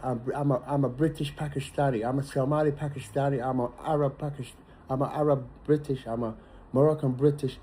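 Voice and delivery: lightly mocking, muddled listing of identities; a hint of a confused voice stumbling through labels; mocking quote. Speaker mimics people unsure of their identity, lightly mocking voice. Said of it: "You cannot even stand and say".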